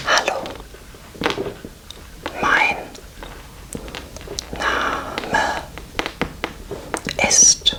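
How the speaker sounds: Hallo, mein Name ist spaced word by word; slow German demo. Shown as a demonstration. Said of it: "In Germany, you would say".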